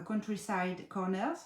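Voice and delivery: slow attempt at an English accent; French speaker showing off an English accent. Real, not acted. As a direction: say it slowly with your best English accent. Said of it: "vous avez vu mon accent un peu en anglais".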